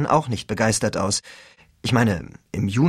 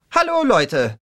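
lightly voiced gushing cheerleader; bubbly cheerleader; 9 semitones higher, slower than usual. A narrator's reading. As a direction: gush it brightly into the mic. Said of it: "blubberte die Blonde ins Mikrofon".

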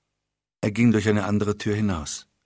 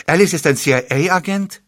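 higher, slow, incredulous question; can't believe what he's hearing; shocked to learn his friend is a spy; stunned disbelief; 8 semitones higher, 5 dB louder than usual. Acted.

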